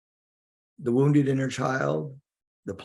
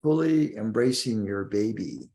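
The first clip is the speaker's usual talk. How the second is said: guided meditation. Acted. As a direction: guide the listener inward, lingering on key words.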